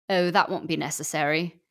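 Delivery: British man. Acted. Disguised man revealing himself to the author, British accent. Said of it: "educated British man".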